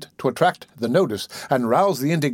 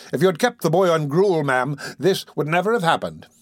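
pompous bellowing beadle; 3 semitones higher than usual. Acted. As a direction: lecture like a puffed-up beadle. Bumble voiced.

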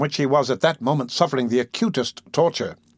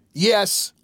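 put-on defiant boy voice; 8 semitones higher than usual. Oliver voiced.

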